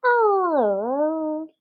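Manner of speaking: high whimpering puppy "Oh"; puppy's little cry. Acted. Puppy waking from the sack, a high cry. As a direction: cry it out like a tiny pup. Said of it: "and went".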